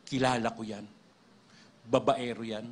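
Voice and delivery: low, heavy voice of a demon; big demon voice. Retold or imitated. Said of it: "Malaki yung boses". (malaking boses ng demonyo)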